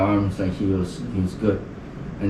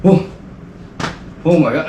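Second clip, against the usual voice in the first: freaked out; 5 semitones higher than usual. Retold or imitated. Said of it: "I was, like, freaking out".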